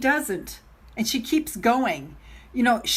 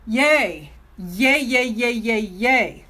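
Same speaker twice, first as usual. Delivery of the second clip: little cheer; 3 dB louder, slower than usual. Real, not acted. Cheering about the challenge.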